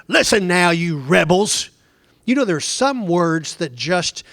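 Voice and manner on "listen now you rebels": angry rebuke. Acted. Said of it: "Can you imagine Moses saying to them".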